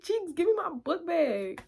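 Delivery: high, drawn-out call to a friend; acted calling out. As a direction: mimic calling out, without full volume. Repeats her call to friend.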